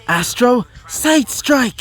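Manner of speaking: high, drawn-out mock scream without full volume; screamed attack call. A narrator's reading. Artemis fires her signature attack, restrained scream. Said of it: "As she would scream out".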